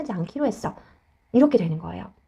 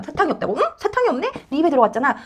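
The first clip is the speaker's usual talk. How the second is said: lightly acted surprise, pitched higher; lightly voiced puzzled parent; 4 semitones higher, faster than usual. Parent telling child the candy was eaten, lightly puzzled. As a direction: play a mildly puzzled parent answering a child.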